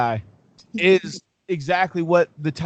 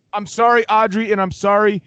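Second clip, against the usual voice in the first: loud apology; 2 semitones higher, 4 dB louder than usual. Acted. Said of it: "you can hear me swearing".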